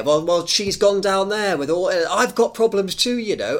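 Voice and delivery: put-on New Zealand accent; lightly done Kiwi accent. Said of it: "imagine I'm speaking a Kiwi accent".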